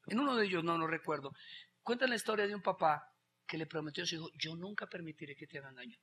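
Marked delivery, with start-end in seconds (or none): 4.4-6.0 tender promise. Acted. Father's promise quoted softly.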